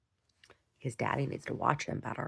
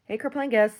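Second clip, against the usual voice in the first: dog greeting; 8 semitones higher, 7 dB louder than usual. Real, not acted.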